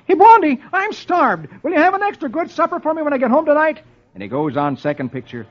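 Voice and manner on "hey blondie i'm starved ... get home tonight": much higher, fast eager husband voice; a starving husband pleading for supper; Dagwood on the phone. Acted. Dagwood on the phone begging Blondie for supper, high and eager.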